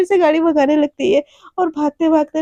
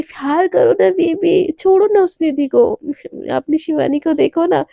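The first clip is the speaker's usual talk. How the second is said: coaxing plea; 2 semitones higher than usual. Acted. Flirty pleading with partner.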